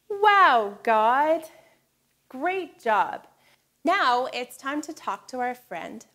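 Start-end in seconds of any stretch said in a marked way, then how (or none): 0.1-1.4 excited exclaim. Shown as a demonstration. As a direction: call it out with open hands. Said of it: "open your hands and say".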